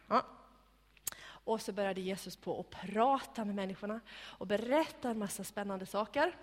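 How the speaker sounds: ordinary talk, nothing marked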